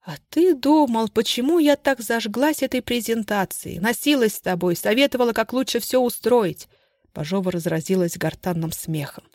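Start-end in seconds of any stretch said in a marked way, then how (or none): 0.0-6.7 gloating taunt. Acted. Bazhova taunting her duped husband, gloating. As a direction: rub his nose in it.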